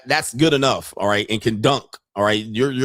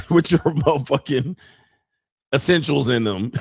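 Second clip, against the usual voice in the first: words through a laugh; 2 semitones higher than usual. Real, not acted. Mocking the satchel carrier, laughing. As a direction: say it while still laughing.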